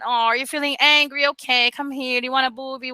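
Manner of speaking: mother soothing her upset son; soothing mom. Retold or imitated. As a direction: comfort a crying toddler. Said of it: "tell him that".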